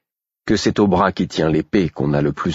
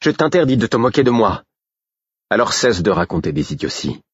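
furious; 4 semitones higher than usual. Acted. Girl furious at being mocked.

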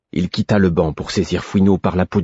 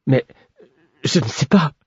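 much higher, pleading protest; 8 semitones higher than usual. A narrator's reading. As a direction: cry out in protest. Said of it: "protestai-je". (protestation aiguë)

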